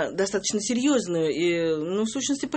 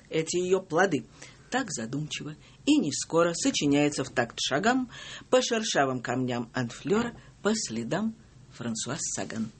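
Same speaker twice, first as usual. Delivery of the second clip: poem reading. Acted. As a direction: recite with pauses between lines. Reads second poem.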